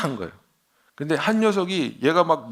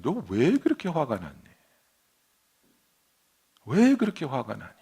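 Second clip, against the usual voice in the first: gentle God's question. Retold or imitated. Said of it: "하나님이 그러는 거예요".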